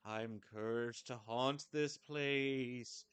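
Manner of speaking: ghost voice. Acted. Voicing a ghost character.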